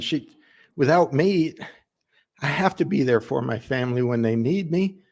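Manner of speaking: defensive plea from a worker, lightly acted; earnest family man explaining himself. Worker explains to Darla why he left work, earnest and defensive. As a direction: justify yourself to the boss, with pauses between thoughts. Audition monologue, pleading to boss Darla.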